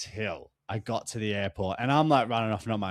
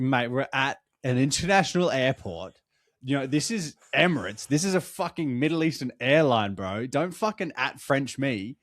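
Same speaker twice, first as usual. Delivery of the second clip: mildly indignant retold comeback; worked-up mate-to-mate telling-off; heated retort; 2 semitones higher, 4 dB louder than usual. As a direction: tell someone off, exasperated but controlled. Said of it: "you've come in hot. I like the energy".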